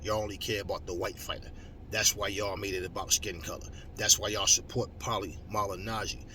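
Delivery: ordinary delivery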